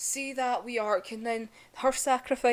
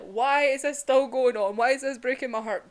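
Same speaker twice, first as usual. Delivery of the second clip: anguished outcry; 3 semitones higher, 8 dB louder than usual. Retold or imitated. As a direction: wail it like the story just broke you. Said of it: "now it's me gonna be like".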